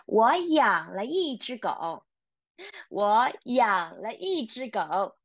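teacher speeding up the drill sentence. Shown as a demonstration. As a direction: run through 我养了一只狗 quickly. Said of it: "let's see if we can read faster".

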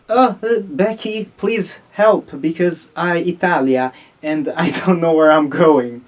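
put-on halting plea in an Italian accent. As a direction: play a lost Italian asking for help. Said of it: "Listen to that Italian accent".

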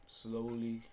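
slow, soft murmur to yourself; nice and slow. Real, not acted. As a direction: ease the words out slowly and softly. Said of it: "Slowly. Nice and slow".

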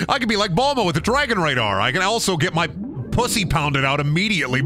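giddy joking. Real, not acted. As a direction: rattle it off giddily. Joking excitedly about Bulma.

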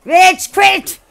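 loud, high rage quit outburst; frustrated yelling. Real, not acted. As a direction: shout it half laughing in frustration. Frustrated gamer about to quit.

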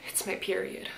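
"It's my period" breathed in a full whisper; dramatic whisper. Shown as a demonstration. Showing how dramatic the heroine sounds, in a whisper. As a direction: whisper it like a dark secret. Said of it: "in the way she says it".

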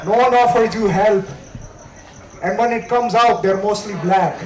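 comic put-on Indian accent all through the opening bit; a light Indian accent from Pondicherry; fake Indian accent. Comic introducing himself as just arrived from India, light Indian accent. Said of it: "that's not my accent".

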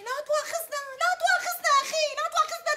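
sarcastic apology. Acted.

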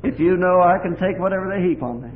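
the first, lesser cry of trust to the Lord; tearful vow. Retold or imitated. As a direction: declare it through the tears. Prayer through tears, first time.

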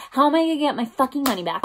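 fast, high burst of frustration; rapid, worked-up demand; exasperated. Real, not acted. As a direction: fire off the angry question. Exasperated at losing her money.

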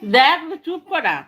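slow words through a laugh. Real, not acted. Laughing at baby.

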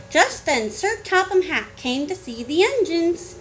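animated storybook narration with stretched key words; reading to children. Acted. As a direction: tell it to a small child. Parent reads storybook to child.

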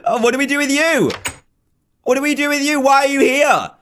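high, nervy questions; nervous questioning. Real, not acted. Player questions the figure that scared her, nervous. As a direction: pitch up in uneasy bewilderment.

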